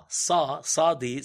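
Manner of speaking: drawn-out pharyngeal ayin in סעדי. Shown as a demonstration. Teaching listeners the Eastern ayin, slow throaty demo.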